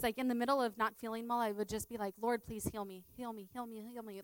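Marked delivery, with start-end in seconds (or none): 2.2-4.2 soft, murmured repeated plea; retold begging. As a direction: plead under your breath, over and over. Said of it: "like, begging, right?".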